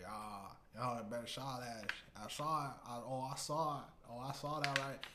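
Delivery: put-on deep southern accent. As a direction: exaggerate a hard-to-understand Southern accent. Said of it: "speaks in such a fucking deep southern accent".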